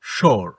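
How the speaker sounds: "শোর" opening on a clear sh; SH sound. Shown as a demonstration. Teacher gives S-H example, clear sh. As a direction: start "শোর" with a full sh. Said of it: "এরকম করে".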